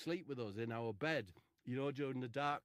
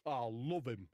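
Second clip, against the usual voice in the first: Charlie Williams; 5 dB louder, slower than usual. Acted. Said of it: "Did speak like that".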